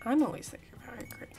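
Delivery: fast breathy whisper, like confessing a secret. Pretend. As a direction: whisper it quickly to yourself.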